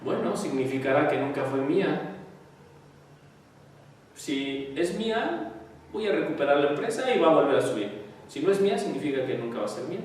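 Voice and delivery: quietly unbothered; calm acceptance. Acted. Calm person facing bankruptcy. (aceptación serena y suave)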